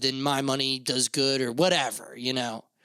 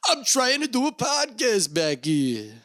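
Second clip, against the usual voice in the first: higher, slower irritated complaint; annoyed at crow; 8 semitones higher than usual. Real, not acted. Host annoyed at a crow interrupting his podcast, irritated. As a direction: snap at the noisy crow, drawn out.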